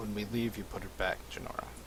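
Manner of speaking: hushed, quiet muttering. A player's character mutters under breath to another character: muttering under breath. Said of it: "I muttered under my breath to her".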